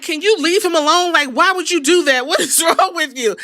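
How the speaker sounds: lightly voiced frantic manager begging him to stop; a hammed-up Heyman whine; imitating Paul Heyman. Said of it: "Paul Heyman is yelling at fucking Seth Rollins".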